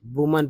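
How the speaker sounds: वुमन with a short u and schwa ending; वुमन, not वुमैन; say it woomun. Shown as a demonstration. Teacher showing students: वुमन said woomun. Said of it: "वुमैन नहीं".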